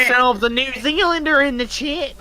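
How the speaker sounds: loud, slow, high Aussie showman; Australian hunter voice. Pretend. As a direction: hype it like a crocodile hunter. Mock crocodile hunter announcement.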